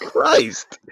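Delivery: breathy whispered curse. Real, not acted. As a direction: whisper it in disbelief. Disgusted reaction.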